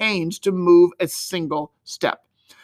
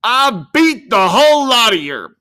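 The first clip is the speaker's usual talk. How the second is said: put-on higher, louder, gleeful child's crow; joyful cry; 5 semitones higher, 7 dB louder than usual. A narrator's reading. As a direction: crow with triumph at the table. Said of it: "cried with joy".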